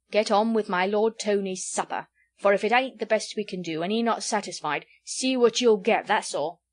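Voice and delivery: stern order. Acted. Innkeeper ordering his daughter to serve the lord, stern. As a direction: lay down the law.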